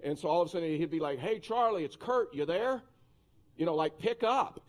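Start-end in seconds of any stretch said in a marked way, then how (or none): 1.2-2.8 higher-pitched imitation of an intrusive boss; senior pastor calling in. Senior pastor chirping into a bedroom by walkie-talkie, calling out. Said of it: "senior pastor's voice coming through your bedroom". 4.0-4.6 higher, louder mock call-out; impatient calling. Pastor pestering his employee late at night, calling out.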